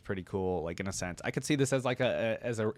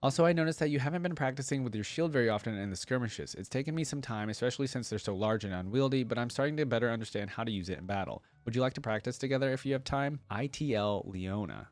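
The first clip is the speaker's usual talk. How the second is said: lightly voiced devout young warrior, earnest; Leona's reply read; 3 semitones higher than usual.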